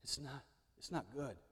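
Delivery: low, hushed, tempting murmur close to the ear; devil's whisper. Acted. The devil tempting Jesus in the garden, hushed and sly. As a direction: coax him softly like a devil at his ear. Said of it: "and whispered in his ear".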